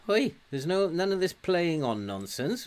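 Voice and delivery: annoyed player's shout at the screen; telling off. Real, not acted. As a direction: call him out for playing on.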